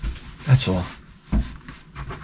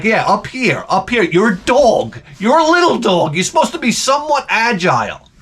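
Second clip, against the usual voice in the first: coaxing the dog; 6 semitones higher than usual. Retold or imitated. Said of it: "I'm like".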